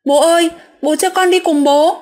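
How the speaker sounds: high, pleading, tearful voice; tearful plea. Retold or imitated. Crying child begging her father, high and tearful. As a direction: beg him to take you along. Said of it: "em càng khóc mạnh".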